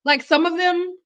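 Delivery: high, bright put-on girly voice; her friendly client voice. Shown as a demonstration. Stylist demos the voice she used with salon friends, high and put-on. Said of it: "So I would talk like this to some of them".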